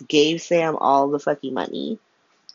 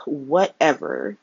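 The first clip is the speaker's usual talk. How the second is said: resigned whatever; slower than usual. Real, not acted. Giving up on Curtis's bad plan, slow and resigned. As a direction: let it sag out slowly, giving up.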